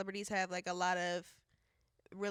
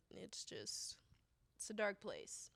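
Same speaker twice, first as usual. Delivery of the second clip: whispered; 9 dB quieter, slower than usual. Real, not acted. Somber remark on celebrities.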